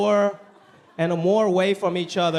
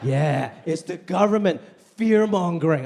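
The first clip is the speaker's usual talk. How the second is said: lightly voiced conspiracy guy; 4 semitones lower than usual. Comic voicing anti-mask skeptics, lightly paranoid. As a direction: play it like a mild paranoid skeptic. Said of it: "They're like".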